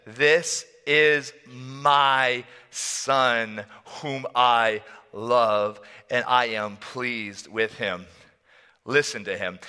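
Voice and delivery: very slow, solemn proclamation; voice of God. Acted. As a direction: declare it word by word, majestically. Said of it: "The audible voice of God".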